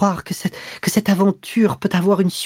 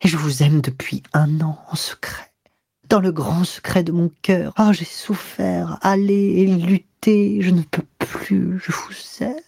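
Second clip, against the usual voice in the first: higher, breathless, near tears; panting anguish; 8 semitones higher than usual. A narrator's reading. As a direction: confess it gasping and breaking. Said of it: "d'une voix haletante".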